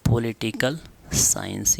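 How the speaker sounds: पॉलिटिकल साइंस drawn out slowly; slow dictation. Shown as a demonstration. Teacher dictates term for writing. (धीरे-धीरे लिखवाते हुए)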